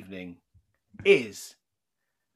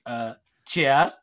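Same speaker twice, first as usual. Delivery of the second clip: lightly put-on Bengali accent; 4 dB louder than usual. Mum translating chair for her child, mild Bengali accent. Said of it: "but with a Bengali accent".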